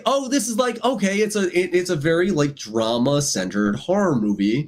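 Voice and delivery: high, eager, taking the film in; mock impressed viewer. Viewer at the film's start, high and impressed. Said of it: "You're like".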